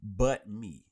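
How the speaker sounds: play-complain about being left out; mock complaint. Host retelling a comedian's joke about being left out, mock complaint. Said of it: "he was just joking".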